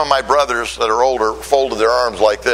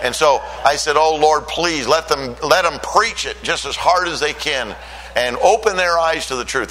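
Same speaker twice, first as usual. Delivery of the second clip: fervent prayer; 2 semitones higher than usual. Retold or imitated. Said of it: "I was saying".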